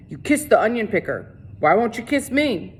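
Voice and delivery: leering sheriff voice; drunk taunt. A narrator's reading. Sheriff taunting Catherine after the slap, leering. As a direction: taunt her, half drunk.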